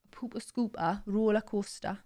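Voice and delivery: attempted Newcastle accent; Geordie accent. Shown as a demonstration. Trying hard-to-maintain accent on stream, Geordie accent. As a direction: have a go at Geordie. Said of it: "Geordie accents I find really hard".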